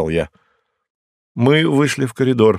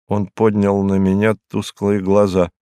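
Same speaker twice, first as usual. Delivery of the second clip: ordinary delivery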